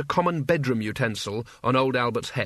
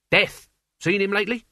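loud and insistent; 6 semitones higher, 3 dB louder than usual. A narrator's reading. Albert presses him.

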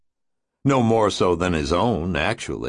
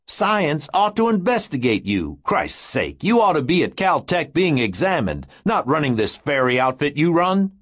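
higher, heated rant; a worked-up big man ranting; angry Pete voice; 4 semitones higher than usual. Acted.

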